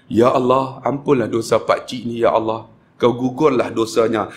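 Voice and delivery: low, gently spoken prayer; leading a supplication. Retold or imitated. Praying over pilgrim while cutting hair. (doa merayu bernada rendah)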